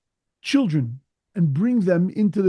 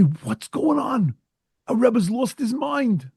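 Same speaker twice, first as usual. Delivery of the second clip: shocked disbelief; 5 semitones higher, slower than usual. Retold or imitated. Chassidim shocked by the Rebbe.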